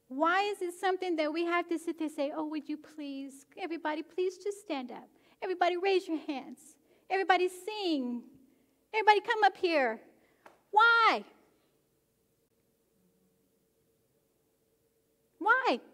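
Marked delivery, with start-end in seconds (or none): 2.3-10.0 mock pleading worship leader. Preacher mimics worship leader coaxing the congregation. 10.7-15.8 high, loud exasperated why; shouted why. Real, not acted. Preacher shouting at congregation in exasperation.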